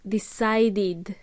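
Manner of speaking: "Decided" with a clear final "id" syllable; id ending. Shown as a demonstration. Teacher giving an example, "Decided" ending in id. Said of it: "We have to make it id".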